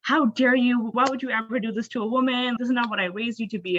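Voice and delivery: furious scolding. Retold or imitated. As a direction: imitate an outraged mother telling off her son.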